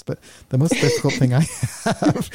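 laughing through the words. Real, not acted. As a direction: break into a laugh mid-sentence. Joking his wife might hear.

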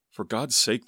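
an understated bellow from an angry father. A narrator's reading. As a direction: exclaim it loudly, short of a full bellow. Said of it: "the deep masculine voice bellowed".

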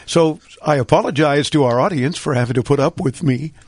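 hoarse, weak, strained voice; talking through laryngitis. Real, not acted. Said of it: "I don't quite sound like this usually".

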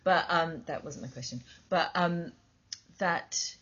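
talking between sips of tea; sipping hot tea. Real, not acted. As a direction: mug at the lips, sipping while talking. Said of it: "I'm drinking a cup of tea if I make slurping noises".

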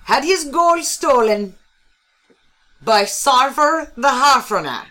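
put-on Taiwanese accent. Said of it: "transitioning into a French Taiwanese accent".

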